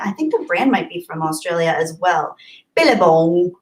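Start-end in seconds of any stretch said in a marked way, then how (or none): 2.8-3.5 amateur Australian accent on the word; unconvincing Australian twang; attempted Australian accent. Shown as a demonstration. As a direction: have a go at Billabong in an Aussie accent. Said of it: "I can't do an Australian accent".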